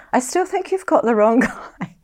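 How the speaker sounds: high-pitched retold protest breaking into laughter; laughing insistence. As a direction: insist stubbornly, then laugh at yourself. Retells insisting to cop, laughing.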